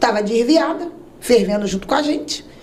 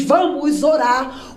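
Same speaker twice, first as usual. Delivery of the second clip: slow churchy; 2 semitones higher, much slower than usual. Retold or imitated. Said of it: "crente, quando ele vai".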